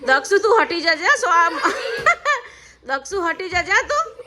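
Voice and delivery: words through laughter; laughing warning to her son to move aside. Real, not acted. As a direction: warn him while cracking up.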